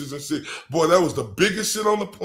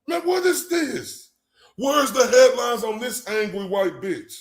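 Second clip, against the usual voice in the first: angry rant; 3 semitones higher than usual. Real, not acted. Heated rant continues.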